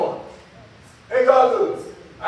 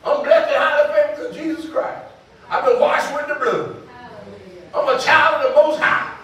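raised, forceful faith confession; declarative preaching; 3 semitones higher, 3 dB louder than usual. Real, not acted. Preacher declaring who they are through Jesus, emphatic. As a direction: proclaim it to the congregation with conviction.

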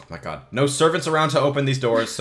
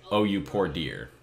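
put-on Southern accent; 8 semitones lower, 7 dB quieter than usual. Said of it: "the Southerners' way of saying".

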